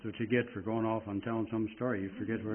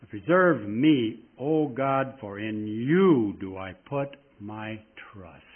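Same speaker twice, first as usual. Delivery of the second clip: slow, much louder, every word weighted; emphatic reading; 5 dB louder, much slower than usual. Shown as a demonstration. Preacher stressing the first psalm verse for his listeners, slow and loud. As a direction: lean hard on each word of the plea. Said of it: "put a little emphasis on that".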